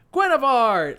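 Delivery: high, loud cry of a name; imitated yell. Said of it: "both yelled in unison".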